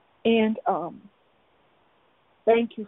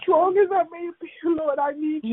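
higher pitched, tears close behind the words; tearful prayer; 6 semitones higher than usual. Real, not acted. Woman confessing her need to the Lord, tearful. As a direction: plead through held-back sobs.

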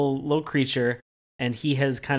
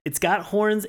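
excited; 6 semitones higher than usual. Real, not acted. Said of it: "It's got horns in it".

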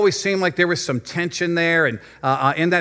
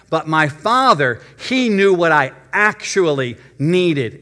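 slow, emphatic preaching. Acted. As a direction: lean into it slowly, like a pulpit. Sermon point, slowed and emphatic.

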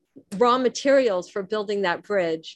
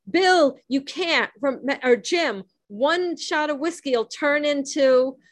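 higher-pitched mock urgent warning; imagined warning shout; 5 semitones higher than usual. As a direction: call it out like a thought trying to get through. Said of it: "that's trying to shout across".

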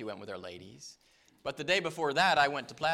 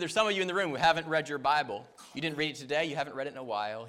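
louder and fast, pressing the point hard; loud retold rebuke; 7 dB louder, faster than usual. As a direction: hammer it at the men in the room. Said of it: "He said".

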